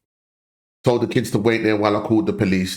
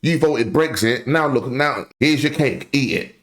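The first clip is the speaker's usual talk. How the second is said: mocking belittling; 3 semitones higher than usual. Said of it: "will then belittle you and say".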